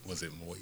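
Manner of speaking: "moist" stretched long and soft; elongated moist. Shown as a demonstration. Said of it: "I literally elongate".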